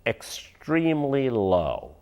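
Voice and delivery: extremely low drawn out slow and soft; slow quoted phrase. Retold or imitated. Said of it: "I do believe the phrase was".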